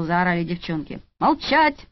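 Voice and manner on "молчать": high, sharp bark; barked order. A narrator's reading. Solovyov barking at the squabbling staff. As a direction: snap them into silence. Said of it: "рявкнул Соловьёв".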